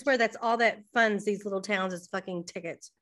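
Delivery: talking with food in mouth; speaking while eating; mouth full. Real, not acted. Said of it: "I'm sorry, I'm eating".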